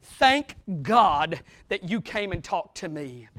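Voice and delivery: a relieved man thanking her; a lightly voiced grateful David. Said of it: "He was saying".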